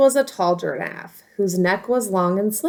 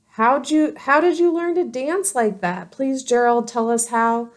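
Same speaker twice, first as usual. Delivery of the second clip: eager pleading; 5 semitones higher than usual. Acted. Animals begging Gerald.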